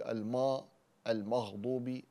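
المغضوب with a thick, drawn-out mim; heavy mim. Shown as a demonstration. Teacher shows the mistake of a heavy mim. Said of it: "فلا نقول".

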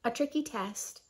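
quick hushed whisper. Acted. Reading a rhyme to kids, sly whispered aside. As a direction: drop to a secretive whisper.

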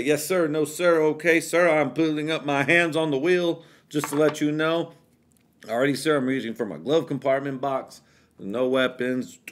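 overly polite high voice to a cop; nervous yes-sir politeness; eager to please an officer. Retold or imitated.

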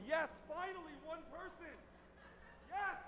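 breathy, high whispered yes of triumph; a secret little victory whisper; hushed celebration. Retold or imitated. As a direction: celebrate under your breath so nobody hears. Private celebration after good news.

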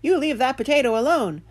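imitating a bossy little dog; quoted dog. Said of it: "my dog stopped chewing on his bone and said".

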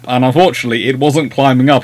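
ordinary delivery

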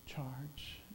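stille, oprechte belofte; quiet sincere pledge. Pretend. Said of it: "really say this morning".

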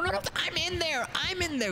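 high, rushed protest; sudden high-pitched panic; urgent alarm. Real, not acted. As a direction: blurt an urgent warning that you're inside. Panics at being caught inside.

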